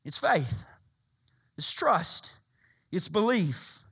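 a hushed, intimate whisper. Real, not acted. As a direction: whisper the word trust. Quiet sermon emphasis.

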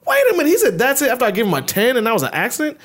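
high, outraged realization; hammed-up outrage; mock indignation. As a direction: build to indignant disbelief. Retold infuriation.

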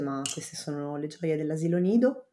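hoarse voice from a cold; worn-out raspy voice after daycare bugs; voice giving out. Real, not acted. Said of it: "Scusate la voce". (voce roca e affaticata)

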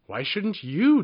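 high, loud indignant retort; fierce demand. A narrator's reading. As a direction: snap it back, fierce and offended. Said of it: "demanded Tuppeny fiercely".

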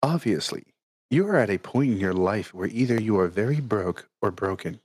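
hushed nature documentary narrator reading. Retold or imitated. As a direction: read it like a calm documentary narrator. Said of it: "I'm gonna use my narrator voice for this".

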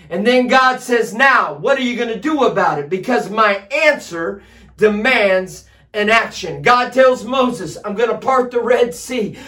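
driving, emphatic sermon delivery; full-force preaching. Acted. Preacher urging the church to act on God's promises, full-force preaching. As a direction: preach it with rising urgency and punched key words.

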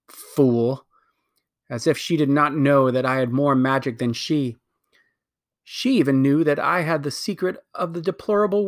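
lightly voiced imperious queen, bitter at her sister; a hint of a haughty queen, scornful; proud wicked queen. Queen justifies destroying her world, haughty.

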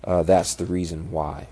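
blocked nose from a fractured nose; stuffy nose. Real, not acted. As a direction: talk through a stuffed-up nose. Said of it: "if it sounds a little nasally".

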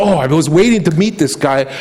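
teasing sneer, rising on the miracle demand; a light mocking king's taunt. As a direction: toy with the prisoner, goading him. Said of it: "Herod is kind of mocking".

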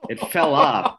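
sudden high yelp of alarm; shocked outburst. Retold or imitated. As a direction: blurt it out in disbelief. Panic over lost door handle.

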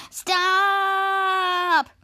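loud stop; shouted stop. Retold or imitated. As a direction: shout to halt the chatter. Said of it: "Schwa says".

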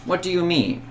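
uncertain query. Acted. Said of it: "Uncertain query".

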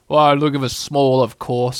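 slow, drawn-out donkey grumble; ponderous, put-upon character voice; gloomy Eeyore. A narrator's reading. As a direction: answer slowly, as if it were obvious. Gloomy Eeyore answering in a story.

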